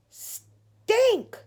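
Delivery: high, loud, drawn-out shout of the name; startled cry. Acted. Judy startled by her little brother, crying out his name high. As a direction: jump out of your skin and yell.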